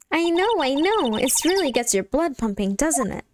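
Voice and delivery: a touch of eager, lifted sidekick chatter; excitable sidekick. Acted. Sidekick to Nick about the circus, lightly excited.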